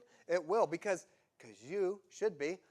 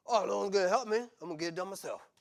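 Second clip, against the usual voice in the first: passive-aggressive; 4 semitones higher, 4 dB louder, faster than usual. Retold or imitated. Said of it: "the passive-aggressive".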